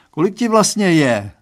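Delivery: put-on dad confiding in the boy; Mr Stránský's voice. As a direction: play the girl's dad, earnest and chatty. Father asks boy's age.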